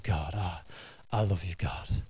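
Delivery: cat purring its love to God, lightly done; adoring cat voice. Retold or imitated. Cat tells God it loves him, softly voiced.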